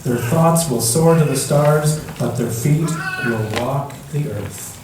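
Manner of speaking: put-on gentle storybook reading for children; story narration. A narrator's reading. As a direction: read it like a bedtime picture book. Reads picture book to children.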